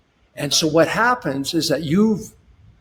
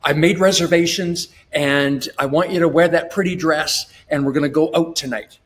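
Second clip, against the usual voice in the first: confident husband announcing plans. Retold or imitated. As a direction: announce the date night to your wife, upbeat and sure. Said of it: "you go".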